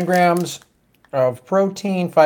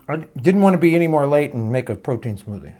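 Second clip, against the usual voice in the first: chewing between words; mouth full. Real, not acted. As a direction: speak through a mouthful. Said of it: "I'm eating a protein bar".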